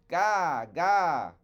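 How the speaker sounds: put-on high, loud baby wail; baby crying gah. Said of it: "Raven Child said".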